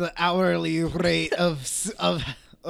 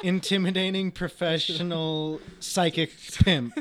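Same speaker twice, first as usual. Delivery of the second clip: laughing; 4 dB louder than usual. Real, not acted. Laughing joke title.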